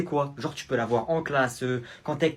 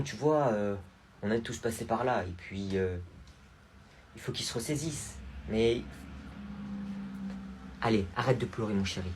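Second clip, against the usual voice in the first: soothing aunt; 3 semitones lower, 3 dB quieter than usual. Acted. Aunt comforting crying nephew.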